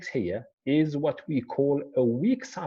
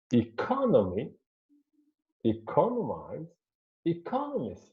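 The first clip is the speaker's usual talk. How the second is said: "economy, economize, economist" each stressed on CON; stress on second syllable; 3 semitones higher than usual. Shown as a demonstration. Teacher giving other examples to students, second syllable stressed. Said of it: "it is on the second one".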